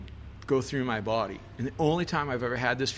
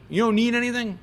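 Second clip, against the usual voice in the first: surprised question; 11 semitones higher, 5 dB louder than usual. Retold or imitated. Roland questions the narrator's answer.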